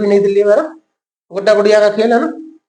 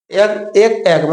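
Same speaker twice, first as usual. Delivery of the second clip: slow correction; much slower than usual. Shown as a demonstration. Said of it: "नहीं, नहीं".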